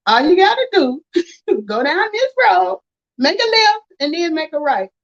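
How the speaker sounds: high, laughing as she gives directions; chuckling through the directions. Retold or imitated. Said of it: "And she said".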